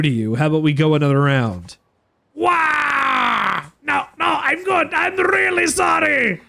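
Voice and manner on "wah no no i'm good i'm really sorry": hammed-up high whimpering plea; whiny punk pleading. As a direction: beg like a beaten coward. Punk begs after beating.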